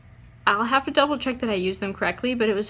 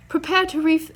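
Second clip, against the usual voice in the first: high, loud mock British captain barking orders; a hammed-up British sea captain; ship's head giving orders in a put-on British accent; 8 semitones higher, 5 dB louder than usual. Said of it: "I don't know why I'm doing a British accent".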